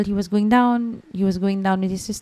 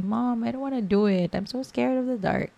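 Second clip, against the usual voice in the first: put-on higher-pitched pleading of a scared boy; imitated tearful child; 5 semitones higher than usual. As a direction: lightly mimic a crying child's protest. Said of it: "he started crying".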